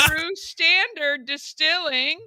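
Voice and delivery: slow, laughing through the name. Real, not acted. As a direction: announce it while cracking up. Laughing while introducing guest.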